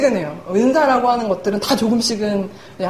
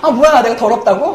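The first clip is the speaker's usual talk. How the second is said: louder mock-offended comeback; retold indignation, played for laughs; annoyed retort; 5 dB louder than usual. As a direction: imitate an irritated friend taking offence. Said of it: "그랬더니 막 짜증을 막 내는 거예요".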